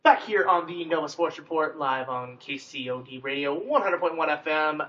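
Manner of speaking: slow, measured station ident delivery; radio host announcement. Acted. Host brings listeners back to Nova Sports Report, radio announcer. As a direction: take your time, announce it evenly on air.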